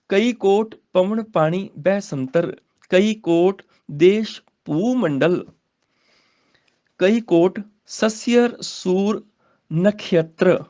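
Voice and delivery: slow, deliberate recital with long pauses; slow scripture recitation. Shown as a demonstration. Teacher modelling the verse for students, slow and deliberate. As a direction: lay out each phrase slowly.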